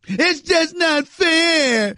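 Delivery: mock whine. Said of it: "clearly in panic mode".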